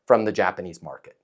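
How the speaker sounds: composed follow-up, no pressure; cool and collected. Shown as a demonstration. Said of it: "Stay cool, calm, collected, and then follow that up with".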